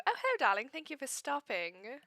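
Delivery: breathy vintage purr. Acted. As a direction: charm him with a purring darling. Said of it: "she's gonna look at him and go".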